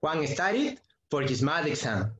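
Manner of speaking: slow, careful English model line; teacher modelling English slowly; slow model sentence. Shown as a demonstration. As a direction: spell it out slowly for the class. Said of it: "Juan estudió para el examen".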